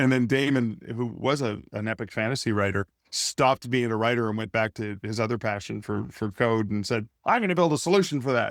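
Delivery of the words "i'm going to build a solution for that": booming, confident, loud and fast. Retelling how Damon announced he would build a tool for authors, loud Damon voice. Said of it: "he said it in his loud Damon voice".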